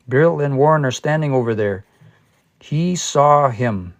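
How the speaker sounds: slow, deliberate He saw him with a falling end; slow example. Shown as a demonstration. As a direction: spell out the ambiguous sentence. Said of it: "I use the example".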